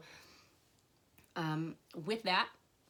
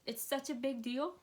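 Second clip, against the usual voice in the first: choked up; 5 semitones higher than usual. Real, not acted. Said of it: "I'm getting emotional".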